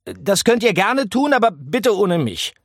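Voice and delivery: a fussy little mouse saying no; refusing mouse. A narrator's reading. Mouse refuses the rats' adventure.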